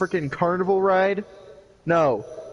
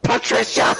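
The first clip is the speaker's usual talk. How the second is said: a laughing, breathy call of Patricia, higher; calling out a name; 6 semitones higher, 3 dB louder than usual. Acted. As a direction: call her name across the room between laughs.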